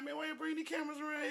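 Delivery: high, quick voice of an annoyed man; imitating homeless man. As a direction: play the bothered guy being filmed. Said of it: "the man was looking like".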